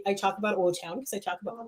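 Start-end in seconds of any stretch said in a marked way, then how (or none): 0.6-1.0 "O-Town" in an odd accent, like "ole town"; "O-Town" oddly accented, with an L creeping in; weird accent on O-Town. Real, not acted. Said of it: "I said it with a weird accent".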